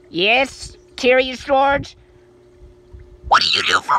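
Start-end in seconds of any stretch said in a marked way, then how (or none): 0.1-2.0 very deep, slow toy voice; low, slow, drawn-out figure voice; Luigi voice. Pretend. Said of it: "Hey, Luigi".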